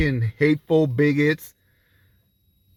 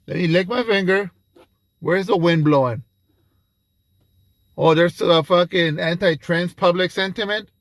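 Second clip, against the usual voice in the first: mock spineless politician; 4 semitones higher than usual. Mocking opportunist politicians.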